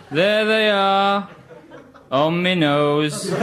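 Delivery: bingo calls, lightly voiced; bingo caller. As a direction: call out numbers like a bingo hall. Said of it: "eyes down for a full house".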